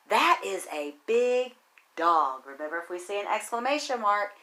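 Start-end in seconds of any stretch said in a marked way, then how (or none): 0.1-2.4 excited. Shown as a demonstration. Teacher showing kids how to read with excitement. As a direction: read it like a big dog is coming. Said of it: "read it with some excitement".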